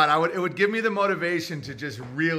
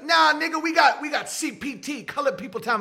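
mock street voice; 9 semitones higher than usual. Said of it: "It's like".

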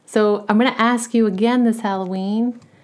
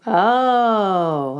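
whisper. Real, not acted. Quiet aside whisper.

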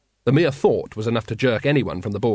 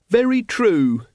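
high-pitched, emphatic yes-man; agreeing follower; 10 semitones higher, 4 dB louder, slower than usual. A narrator's reading. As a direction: agree eagerly in a raised character voice. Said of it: "nodded Brother Watchtower".

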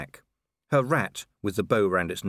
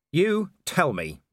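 slow, higher angry growl; 8 semitones higher, 3 dB louder, slower than usual. Acted. Vimes growling at the vampire lady, slow and higher. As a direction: drag the words out in anger. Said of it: "he growled".

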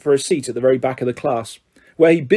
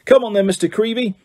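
beaming showman; 6 semitones higher than usual. A narrator's reading. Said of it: "beaming at Colin".

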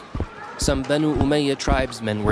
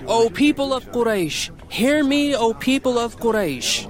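calling out; 11 semitones higher than usual. A narrator's reading. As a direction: call out to the whole crowd.

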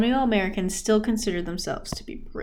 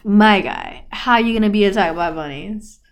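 loud disbelief; 7 dB louder than usual. Real, not acted. Disbelief at Napoleon story.

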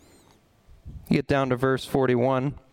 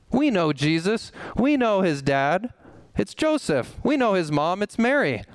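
higher, sneering know-it-all tone; mock scoffers; 6 semitones higher than usual. Preacher voicing the hometown crowd scoffing at Jesus, higher and sneering. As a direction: scoff like the gossiping townsfolk.

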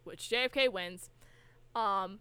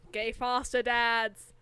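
quoting JFK; much slower than usual. Retold or imitated. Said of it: "Say the quote again".

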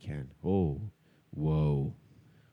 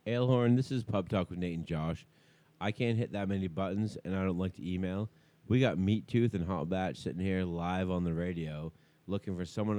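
softer radio-host voicemail; voicemail message; 4 dB quieter than usual. Acted.

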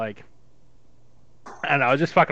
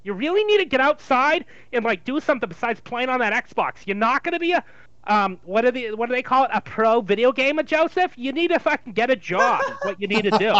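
Jewish mother. Acted. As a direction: lay into him like a Jewish mother. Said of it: "a Jewish mother".

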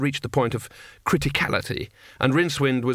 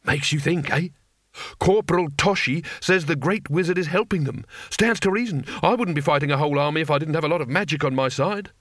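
soldier voice; 4 semitones higher than usual. Acted.

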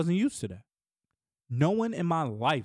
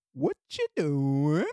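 imitating his daughter; 3 semitones lower, much slower than usual. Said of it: "This is how she show her love".

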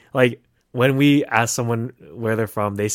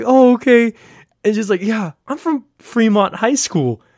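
put-on higher voice of a bluffing girl; mocking girl voice; 10 semitones higher, 4 dB louder than usual. Retelling a bluffing party girl, mocking. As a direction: play her nervous bluff. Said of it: "she was like".

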